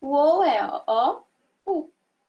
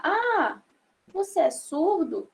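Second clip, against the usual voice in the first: higher, surprised você é surdo; surprised question; 4 semitones higher, slower than usual. Shown as a demonstration. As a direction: ask it with open curiosity. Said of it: "o surdo pode perguntar". (pergunta surpresa)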